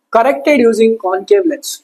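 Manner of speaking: dictation. Shown as a demonstration. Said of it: "dictating notes".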